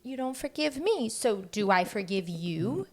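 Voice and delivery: half-laughing mom's question; laughing through words. Retold or imitated. Mother retells asking her three-year-old, laughing. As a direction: keep giggling while you ask him. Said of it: "And I was like".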